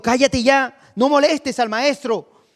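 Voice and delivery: high-pitched, emphatic rebuke; scolding. Acted. Crowd rebuking the blind man, scolding. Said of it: "la gente le reprendía".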